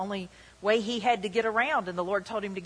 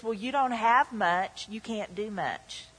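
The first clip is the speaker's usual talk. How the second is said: voice of riches; slower than usual. Retold or imitated. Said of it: "the voice says".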